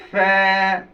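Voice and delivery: held f-sound in "ফা", not "pha"; lip-and-teeth ফা. Shown as a demonstration. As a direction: model a true f on "ফা". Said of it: "এই পেটে লাগবে".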